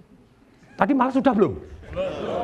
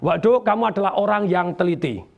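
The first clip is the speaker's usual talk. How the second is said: mildly lowered, measured reassurance; model correction to child; 3 semitones lower than usual. Shown as a demonstration. Showing a teacher how to correct a pupil, lower. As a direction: show a teacher gently correcting the work. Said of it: "ngomongnya begini".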